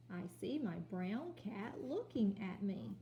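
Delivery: slow, smooth reading; slow reread. Shown as a demonstration. Teacher rereading the line for children. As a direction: read it again slowly. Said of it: "Let's read that part again".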